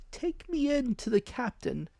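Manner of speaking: high cruel command; menacing blind man. Acted. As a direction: order the boy coldly.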